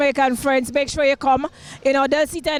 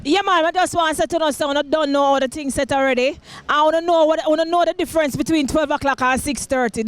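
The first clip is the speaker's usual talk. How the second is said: Jamaican twang. Pretend. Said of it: "in the Jamaican twang".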